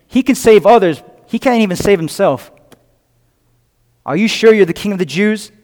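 lightly mock him, questioning at the end. Onlookers jeering at Jesus on the cross, mocking. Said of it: "mocking him, saying".

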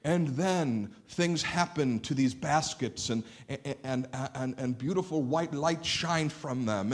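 slow, wide-eyed fairy-tale wonder; mock fantastical telling. Preacher mocking an invented gospel, slow mock wonder. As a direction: spin it like a made-up legend, slowly. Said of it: "not made up in a fantastical fashion".

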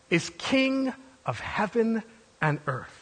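slow, measured end to a proclamation; stately, spaced-out final declaration; herald's solemn close. Acted. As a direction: bring the proclamation down to a weighty close. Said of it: "This is the announcement".

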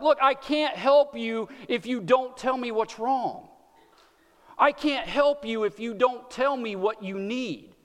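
put-on slow, patient parent to a fussing child. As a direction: coax it out gently, slowly. Parent voicing to crying kids.

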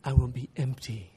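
put-on slow, low, weighty Ugandan-accented answer; young Ugandan accent. Student explaining why he must know now, Ugandan accent. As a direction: imitate a Ugandan student, earnest and deliberate, with pauses. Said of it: "I'm gonna have to do young Ugandan".

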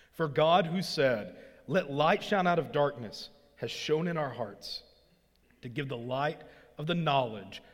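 measured public reading of the passage; scripture reading. Acted. Pastor reads Second Corinthians to the congregation, measured reading. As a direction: read the text to the church with weight.

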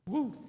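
soft, high-pitched "woo"; brief "woo". Real, not acted. Preacher reacting to keep my commandments, soft high "woo". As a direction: let out a small high whoop. Exclaims after reading a hard command.

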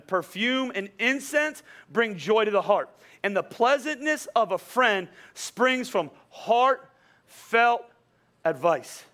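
slow, measured reading of a proverb; scripture reading. Acted. Pastor reading Proverbs to the church, slow and measured. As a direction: read the verse out slowly and deliberately.

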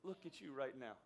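soft, dropped-away voice of a let-down dad; quiet disappointed father to his son; disappointed hush. Retold or imitated. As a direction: say it under your breath, too hurt to look at him. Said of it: "here's exactly what I said to him".

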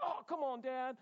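mock griping; griping kid. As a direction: whine it like a bored boy. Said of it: "we were griping about it".

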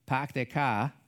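dropped-r Boston accent; imitated Boston speech. Shown as a demonstration. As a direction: put on a Boston accent, no r's. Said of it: "tell if somebody is from Boston".

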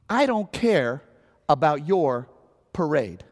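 measured, pointed brush-off with pauses; mock a cold refusal; retold dismissive reply. Retells the driver's dismissive reply.

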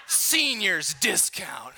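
slow, chuckling repeat of the punchline; amused retelling with a laugh. Real, not acted. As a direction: savour it through a laugh.

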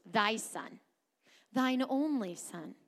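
"thy son, thine only son" slowly, each phrase set apart; pointed inflection. Shown as a demonstration. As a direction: lean on "thine only", drawing it out. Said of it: "Notice the detail and inflection of these words".

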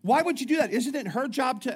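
high, loud, incredulous why; mock incredulous question. Pastor retelling his question to a churchgoer, high mock incredulity. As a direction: play his own baffled self. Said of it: "somebody wanted to kill me".

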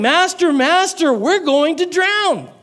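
high-pitched cry for help, not at full volume; shouting disciples. A narrator's reading. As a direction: call out urgently, drawing out the last words.

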